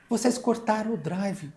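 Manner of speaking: voz aguda de funcionária indignada, levemente imitada; reclamação indignada. Retold or imitated. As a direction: imita a colega protestando, mais aguda. (funcionária protesta ao chefe sobre o corte, indignada e aguda)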